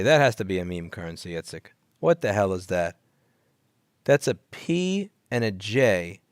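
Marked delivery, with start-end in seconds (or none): 4.0-6.2 slow, letter by letter; slow spelled out. Shown as a demonstration. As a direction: spell out each letter slowly. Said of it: "repeated slowly".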